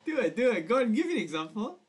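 loud, eager pushing. Real, not acted. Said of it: "pushing friend to do the voice".

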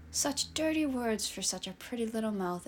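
purring. Acted. Eddie taunts Pippa, a lightly voiced soft purr. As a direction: purr it with lazy amusement. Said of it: "Eddie purred".

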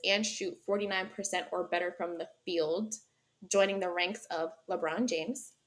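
measured announcer-like reading of season highlights; presenting a player's accolades; sports stats read-out. Real, not acted. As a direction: read the list out evenly, pausing between items. Reads out a stats list.

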